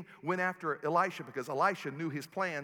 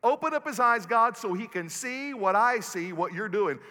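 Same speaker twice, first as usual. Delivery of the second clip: loud, higher, slow pleading to God; fervent loud prayer; 4 semitones higher, 8 dB louder than usual. Retold or imitated. Prophet praying loudly for his servant's sight. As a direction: cry out to the Lord to open his eyes. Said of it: "And he said".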